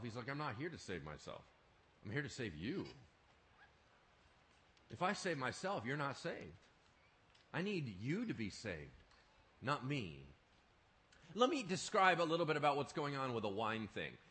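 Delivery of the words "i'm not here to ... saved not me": gentle reply. Acted. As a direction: answer calmly with love. Jesus answers the taunt.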